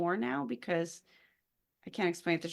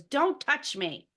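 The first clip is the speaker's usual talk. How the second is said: imitating a daughter, higher and drawn out; slow mock protest in a raised pitch; daughter's protest; 7 semitones higher, 4 dB louder, much slower than usual. Daughter rebuffing mom's wake-up hug, mock protest. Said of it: "she goes".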